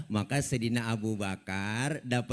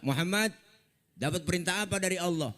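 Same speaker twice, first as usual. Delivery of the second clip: curious elder prophet; 6 semitones higher, faster than usual. Acted. Nabi Musa bertanya.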